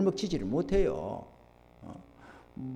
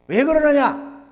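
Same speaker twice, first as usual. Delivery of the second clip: raised, high questioning rebuke; scolding pastor; 9 semitones higher, 7 dB louder, slower than usual. Retold or imitated. Pastor re-enacts summoning a church member, scolding. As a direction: call the church member to account, mildly acted. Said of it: "제가 막 호통을 치는".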